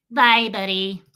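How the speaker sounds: loud, held cartoon farewell; narwhal from Elf. Narwhal seeing Buddy off, put-on cartoon voice. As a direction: wave him off in a creature voice. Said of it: "narwhal in Elf".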